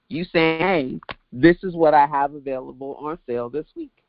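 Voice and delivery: blocked nose, stuffy voice; talking through a stuffed-up nose; congested. Real, not acted. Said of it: "'cause I am congested".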